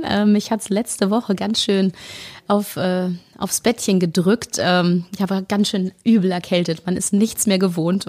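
raspy voice after a cold; rough, hoarse throat. Real, not acted. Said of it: "meine Reibeisenstimme".

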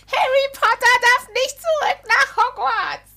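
high squeaky house-elf voice, slow; Dobby voice. Acted. Mocking Dobby's voice.

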